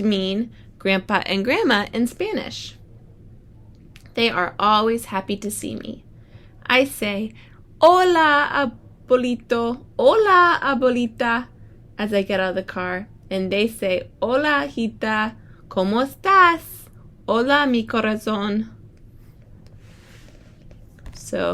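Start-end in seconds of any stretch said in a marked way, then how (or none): 4.1-7.3 bright storybook read-aloud; reading to children. Acted. Teacher reads picture book aloud. 7.8-11.5 high, loud, cheerful hellos; joyful child's hello; excited greeting. Acted. 12.0-14.1 bright storybook read-aloud; reading to children. Acted. Teacher reads picture book aloud. 14.2-18.7 lightly voiced warm greeting, rising on cómo estás; a hint of doting grandparents. Grandparents greet child in story.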